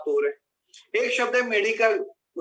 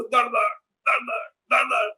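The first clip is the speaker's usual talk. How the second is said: rhythmic thwacks of washing clothes; imitated clothes-beating; much slower than usual. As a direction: mimic pounding the laundry in pairs. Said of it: "करके कपड़े धोती थी".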